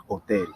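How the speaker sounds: HOTEL begun on the O, no H sound; silent H. Shown as a demonstration. Teacher showing the silent H in Spanish, HOTEL with no H. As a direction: drop the H in HOTEL. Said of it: "The H is always silent".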